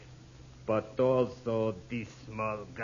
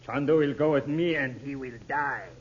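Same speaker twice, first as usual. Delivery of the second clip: louder cold threat; menacing threat; 2 semitones higher, 4 dB louder than usual. Acted. Intruder warning the family not to call out, menacing. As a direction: threaten them with the gun.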